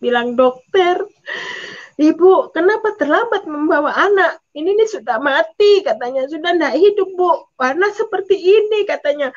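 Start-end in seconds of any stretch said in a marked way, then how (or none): 1.9-5.9 raised, reproachful retold voice; scolding doctor. Doctor scolds mother for coming late. 6.3-8.8 higher, insistent reproach; scolding doctor. Retold or imitated. Doctor scolds, declares baby dead.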